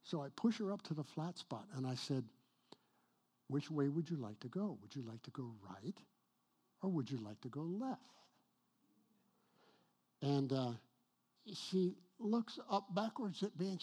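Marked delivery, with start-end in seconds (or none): 3.5-8.0 soft, kindly question; gentle asking. Retold or imitated. Pastor voicing himself to the woman, soft and kind. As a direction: ask softly like to a frightened stranger.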